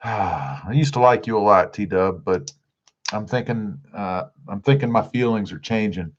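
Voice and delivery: low, let-down teasing; mock hurt. Streamer teasing a viewer who made him hungry, mock hurt. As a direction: play wounded, sighing as you start.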